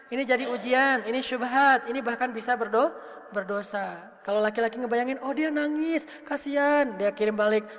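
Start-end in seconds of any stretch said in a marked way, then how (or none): 5.2-6.9 higher, cooing mock sympathy; mock pity. Man imagining that she is crying, exaggerated pity. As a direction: gush with put-on pity.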